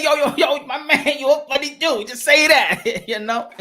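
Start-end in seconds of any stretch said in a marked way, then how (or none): 0.0-2.1 mock friendly greeting. Shown as a demonstration.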